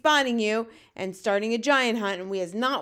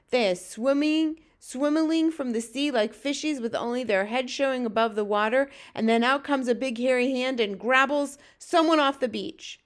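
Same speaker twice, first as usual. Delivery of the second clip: raised, louder friendly giant explaining; lightly voiced BFG; 4 semitones higher, 5 dB louder than usual. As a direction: explain it vividly as a hint of the BFG.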